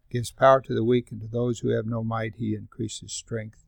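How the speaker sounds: softening, fading reading of the verse; tender reading. Acted. Pastor reading Isaiah to the congregation, softening to a hush. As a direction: let it sink gently to a hush.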